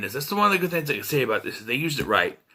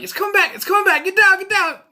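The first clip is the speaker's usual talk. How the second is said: high, loud frantic imitation; hammed-up panic, pitched way up; mock alarmed yelling; 6 dB louder, faster than usual. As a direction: shout the warning over and over. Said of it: "They start yelling".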